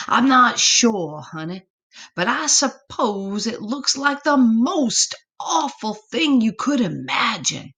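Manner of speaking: high, cautioning mother voice; worried mama. Acted. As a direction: spell out the danger like a fretting mama. Mama answers about loup-garou.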